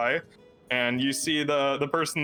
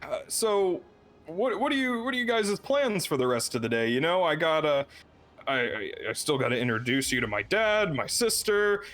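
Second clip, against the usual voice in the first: a little higher, rambling friendly chatter; chatty host Siddiqui; 4 semitones higher than usual. Acted. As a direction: keep the guests busy with eager talk. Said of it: "And he says".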